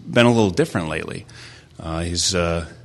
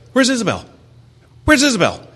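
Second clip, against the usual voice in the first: high-pitched imitation of a worried child; anxious little boy; 5 dB louder, faster than usual. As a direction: mimic a panicky kid, pitched way up. Imitates his anxious young son.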